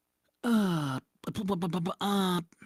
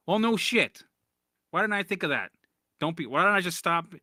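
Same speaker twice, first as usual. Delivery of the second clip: sarcastic retort; 4 semitones higher, 3 dB louder than usual. Retold or imitated. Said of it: "son retorts to mom".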